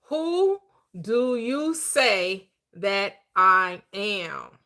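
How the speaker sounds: very slow, deliberate reading of "Who do you say that I am?"; slow scripture reading. Retold or imitated. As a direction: draw out the verse word by word. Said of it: "I go back to the script".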